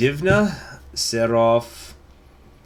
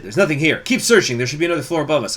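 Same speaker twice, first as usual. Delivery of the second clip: lightly voiced soldier, raised a little; searching soldier; 4 semitones higher, 4 dB louder, faster than usual. Intruders search below the hidden attic, lightly acted soldier. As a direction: call out like a soldier mid-search.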